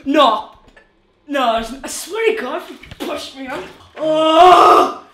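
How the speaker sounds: yelping from the freezing water; in ice cold water. Real, not acted. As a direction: cry out at the cold shock. First steps into ice bath.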